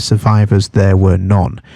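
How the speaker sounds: "survivors" and "none" leaned on at each end of the phrase; stress on survivors and none. Shown as a demonstration. Teacher showing students the emphasis in the quote, stressed words. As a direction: hit "survivors", then drop hard onto "none". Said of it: "puts the emphasis on the word".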